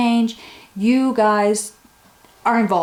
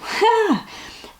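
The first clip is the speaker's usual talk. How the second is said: emotional laugh; 14 semitones higher than usual. Real, not acted. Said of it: "I'm gonna get all emotional".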